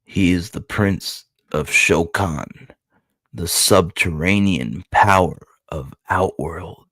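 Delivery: measured, weighty narration with pauses; dramatic narration. Acted. Reading Goro's introduction to viewers, dramatic narration. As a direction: build suspense like a solemn introduction.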